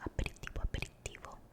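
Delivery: aperitivo whispered in Italian, a-pe-ri-TI-vo, tapped r; repeated trigger word. Shown as a demonstration. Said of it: "a little aperitivo".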